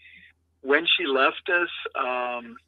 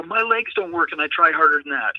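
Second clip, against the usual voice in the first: louder, higher mock scolding; acted indignant rebuke; 3 semitones higher, 4 dB louder than usual. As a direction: imitate her telling off a player. Daughter berating player, acted out.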